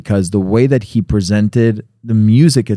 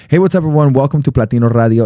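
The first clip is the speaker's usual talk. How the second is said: radio host voice; faster than usual. Retold or imitated. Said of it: "a lot of times I'm like".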